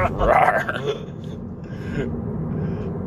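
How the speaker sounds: grizzly bear growl. Retold or imitated. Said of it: "a big-ass fucking growl".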